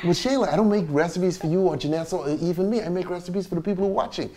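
softened, forcedly calm explanation. Retold or imitated. Explaining to Shayla who the recipes are for, calm voice. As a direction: keep it quiet and patient, holding back. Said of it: "trying to say this in a calm voice".

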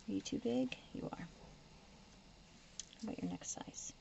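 slow soft whisper. Real, not acted. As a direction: murmur it slowly to yourself. Whispering to sticker.

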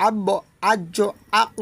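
আব্ব আজ্জ আক with a bouncing release; qalqala echo. Shown as a demonstration. Teacher shows the qalqala bounce. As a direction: let the stop echo. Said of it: "এরকম উচ্চারণ হবে".

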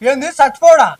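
loud offended protest; loud, offended protest to a friend; indignant. Acted. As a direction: bristle and shout him down. Angry denial to friend.

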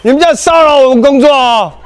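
laughing through the words; playful laughing complaint; laughing while talking. Real, not acted. Teasing crew, laugh heard.

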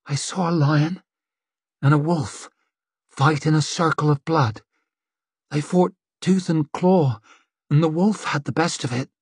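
rough, hollow seer in a trance; strange hollow voice. Acted. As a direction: speak a vision from far away. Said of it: "voice sounded strange, rough, hollow".

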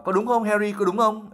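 high unsure question; uncertain. Acted. High unsure ask. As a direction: Ron unsure, looking to Harry. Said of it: "hơi không chắc chắn".

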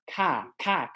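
"k" opened into "kah"; a vowel. Shown as a demonstration. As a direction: model "k" with an open a, twice. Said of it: "colarinho é com a".

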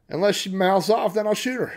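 loud, high comic bluster; mock tough threat. Joking sheriff threatens Miss April, loud mock bluster. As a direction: bluster it loudly as a joke.

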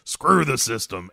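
slow, defiant "Screw the system", stressing "screw"; defiant Charlie Sheen. Retold or imitated. Fugitive Charlie Sheen answers his lawyer with a slow, defiant "Screw the system". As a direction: spit it out like a cocky fugitive. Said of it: "Charlie Sheen says".

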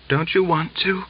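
daughter-in-law taunting him, breathless high voice; panting. A narrator's reading. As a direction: pant the words out. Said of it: "Daria panted".

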